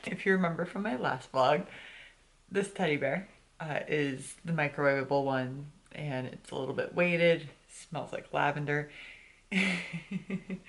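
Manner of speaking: talking around a retainer; wearing a retainer. Real, not acted. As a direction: retainer in, slightly lisped. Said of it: "I have my retainers in".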